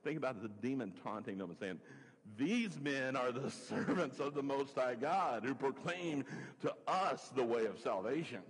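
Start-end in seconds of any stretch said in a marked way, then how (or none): 2.4-8.4 mocking, drawn-out taunt with a laugh; sarcastic tone. Shown as a demonstration. Preacher voicing a demon taunting Paul, sarcastic. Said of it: "Maybe it was with a sarcastic tone".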